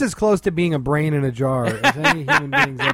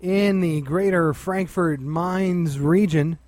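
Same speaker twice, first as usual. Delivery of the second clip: mock weather announcer; much slower than usual. Mock forecast for German listeners.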